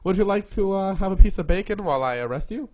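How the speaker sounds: put-on Canadian accent. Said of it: "is that your Canadian accent?".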